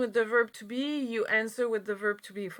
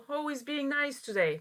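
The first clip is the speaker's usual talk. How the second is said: example quote; 4 semitones higher, 3 dB quieter, faster than usual. Shown as a demonstration. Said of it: "Being is only when".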